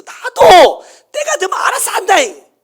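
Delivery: slow, high shouted retort; a stubborn husband shouting back; mock shout. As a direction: drag it out and yell it back at her. Pastor retorts to his wife.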